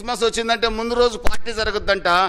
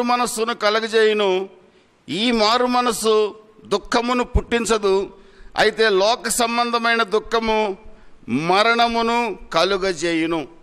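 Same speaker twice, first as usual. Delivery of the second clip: slow, measured Bible recitation; scripture reading; slower than usual. Acted. Pastor reading Corinthians to the church, slow and solemn. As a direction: read the verse deliberately, word by word.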